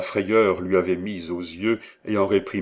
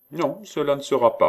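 high-pitched, desperate no; defiant refusal; 8 semitones higher, 4 dB louder than usual. A narrator's reading. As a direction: dig in with a raised, pleading pitch. Frightened apprentice digs in and refuses.

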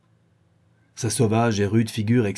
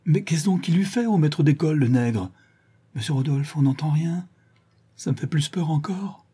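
higher-pitched, uneasy dread; frightened; 6 semitones higher than usual. Acted. Frightened onlooker pleading with Monsieur Rodolphe, fearful. Frightened witness speaks in story.

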